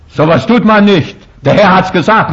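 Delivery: hammed-up Adam refusing the fruit; protesting Adam.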